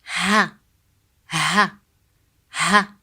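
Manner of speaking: Ha with a light breathy English h. Shown as a demonstration. Teacher drilling the easy ha sound. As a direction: say ha like in house. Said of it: "just like the English H sound".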